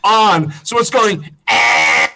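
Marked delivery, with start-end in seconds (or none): 1.5-2.1 organ drone imitation. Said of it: "like that, right?".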